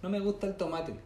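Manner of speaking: high, whiny "no me gusta"; whiny picky eater. Retold or imitated. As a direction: mimic a fussy diner.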